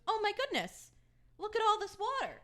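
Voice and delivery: mock-aghast high outcry; retold alarm. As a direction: exclaim like a flustered nail tech, pitch leaping up.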